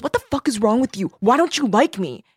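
mock indignant pleading; retold indignant whine. Retelling rejected client's outburst.

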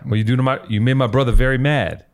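put-on half-hearted Boston accent; badly faked Boston accent, barely there; failed Boston accent. Trying the brother from The Town for the co-host, hopeless Boston accent. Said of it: "That sounded like no accent".

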